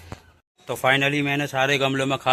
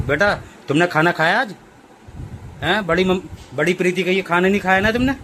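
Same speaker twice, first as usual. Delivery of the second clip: high pet talk; 6 semitones higher than usual. Real, not acted. Owner asking his sad pet if she misses big mummy, high baby talk.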